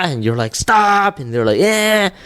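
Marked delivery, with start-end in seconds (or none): 0.5-1.2 high, drawn-out exasperated mimicry; frustrated mock cry. Father acting out a frustrated parent, high mock wail. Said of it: "you're getting frustrated too". 1.6-2.1 very high drawn-out mock wail; mimicking crying child. Father imitating kids mimicking a frustrated parent, high wail. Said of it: "they're gonna mimic that".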